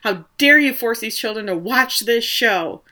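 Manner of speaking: a hint of an angry public scolding; retelling a mother's shout, lightly voiced; mild mock screaming. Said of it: "starts screaming and crying".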